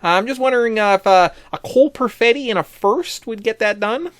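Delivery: lightly hammed-up Canadian phone caller; playful put-on Canadian accent. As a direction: make a folksy trade call in a mock Canadian accent. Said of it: "doing my best Canadian accent".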